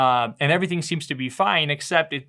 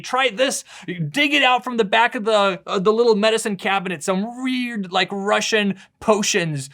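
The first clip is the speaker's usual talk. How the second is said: higher-pitched mock mom on the phone; raised pitch, playful mom impression; lightly imitated mom; 5 semitones higher, 3 dB louder than usual. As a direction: lightly act out a mom urging home remedies. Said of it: "My mom is calling and saying".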